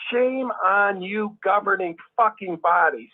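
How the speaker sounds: slow, indignant scolding; burned up. Acted. Ex-member rebuking the governing body, slow and indignant. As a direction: draw out the rebuke with restrained anger. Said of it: "It just burns me up".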